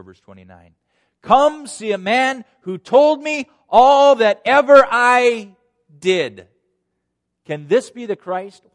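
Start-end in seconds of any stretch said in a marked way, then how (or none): 1.2-8.6 high, loud, amazed proclamation; excited calling out. Acted. Woman runs out and tells everybody, loud and amazed. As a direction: summon everybody, stretching the words out. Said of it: "Listen to her words".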